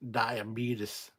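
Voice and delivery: "diabetes" said as die-uh-BEET-us; drawled die-uh-BEET-us for "diabetes"; imitated pronunciation. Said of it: "the way he said it".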